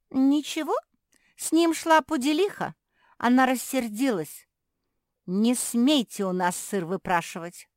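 mock the cross poodle; retold angry poodle. Puppy imitating the angry poodle, high and loud.

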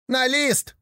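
гораздо выше, сердито и упрямо; сердито настаивай. Acted. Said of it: "сердито спорили". (слепые в пыли сердито спорят)

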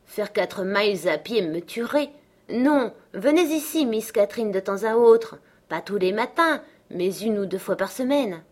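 a hint of a fretful boy, rising on the plea; lightly voiced pleading youth. Linton asking his cousin to visit, mildly pleading. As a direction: plead with mild protest.

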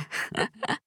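short breathy mocking laugh; drunken laugh. A drunk boy laughing at his captives, short breathy laugh. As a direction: laugh at them under your breath. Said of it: "засмеялся он".

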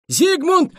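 slow, high, loud order; commanding. A narrator's reading. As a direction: bark the cue at the actor. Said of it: "скомандовал Бена".

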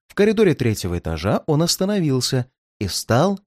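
ordinary delivery

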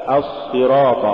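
الصراط with a continuous heavy s; as-sirat, flowing doubled s in الصراط; soft flowing sad. Shown as a demonstration. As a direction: let the sad run in الصراط. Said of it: "الصواب".

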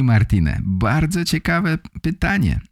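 usual speaking voice

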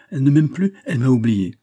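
high, loud despairing cry; distraught outburst. A narrator's reading. Philippe convinced Marthe has forgotten him, loud distraught cry. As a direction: raise pitch and volume, rising on "plus". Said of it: "s'écria Philippe, bouleversé".

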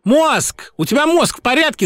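high loud furious yell on Мозг; shouting. A narrator's reading. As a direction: scream it at him. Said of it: "закричала Хелен".

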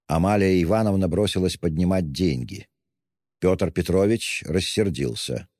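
ordinary delivery, nothing marked

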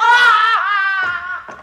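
long, high, loud drawn-out cry; loud anguished wail. Acted. Mother wailing at her daughter's betrayal, loud cry. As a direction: let out a sung wail of outrage.

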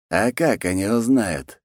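sly smile. Acted. Khan dismisses war chief's worry, slow sly question. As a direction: draw the question out, smiling. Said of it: "широко улыбнулся хан".

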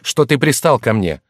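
high, loud, exasperated arguing; heated self-defence; indignant protest. Acted. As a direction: argue back hotly, rising to a shout. Accused servant argues back indignantly.

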